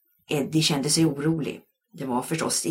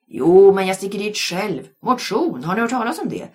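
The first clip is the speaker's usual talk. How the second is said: loud, high retort; bellowing; 6 semitones higher, 9 dB louder than usual. A narrator's reading. Anders roaring back at his family before slamming the door. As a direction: yell it back and slam the door. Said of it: "vrålade Anders".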